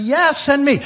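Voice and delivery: high, eager mock volunteering; hammed-up enthusiasm; excited. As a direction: imitate a keen congregation jumping at it. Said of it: "they're all excited".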